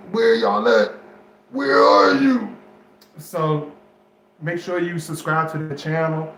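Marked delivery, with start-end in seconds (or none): 0.1-2.6 loud high call to viewers. Real, not acted. Vlogger calling for his viewers, loud and high.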